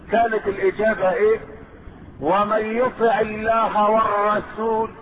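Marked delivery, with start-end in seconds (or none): 2.2-4.9 slow, melodic chanting with long held vowels; Quran recitation. Acted. Preacher reciting the revealed answer, Quran recitation. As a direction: recite in measured phrases, gradually climbing in pitch.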